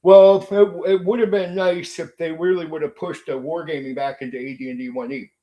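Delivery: loud opening, then falling away into hedging; mock backpedaling. YouTuber mimicking rivals who won't admit they were wrong, mock backpedaling. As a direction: imitate rivals verbally backing off. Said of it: "They started talking like this".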